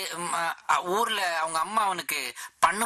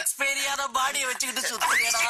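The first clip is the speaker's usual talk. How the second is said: a raised, higher scolding shout; disgusted yell; 7 semitones higher than usual. Acted. Boss scolding the unwashed servant, shouting in disgust. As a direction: scold him for the stink.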